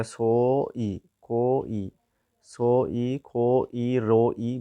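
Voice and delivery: स इ, क इ, र इ with every sound stretched long and separate; sound-by-sound spelling. Shown as a demonstration. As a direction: slowly pull apart consonant and vowel in स इ, क इ, र इ. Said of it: "गारांनि रिंसारथिया बबेयाव दङ होनना नायनोसै". (स इ, क इ, र इ गोलावै लासै रिंसार)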